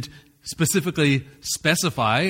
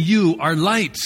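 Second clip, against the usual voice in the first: You punched louder, falling tune; stress on You; 4 dB louder, slower than usual. Shown as a demonstration. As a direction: hit the word You hard. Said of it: "He's saying".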